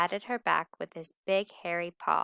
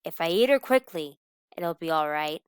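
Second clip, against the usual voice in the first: groaning wolf; 7 dB louder than usual. Acted. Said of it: "groaned the old wolf".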